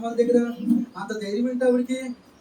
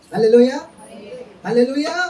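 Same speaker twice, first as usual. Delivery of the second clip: rousing shout of praise; loud hallelujah; 5 dB louder than usual. Real, not acted. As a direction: call it out loud to the hall. Preacher calls out to congregation. (బిగ్గరగా హల్లెలూయా)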